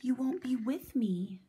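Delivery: put-on small, breathless child's whisper. A narrator's reading. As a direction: whisper it like a worried little boy. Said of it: "whispered Owen".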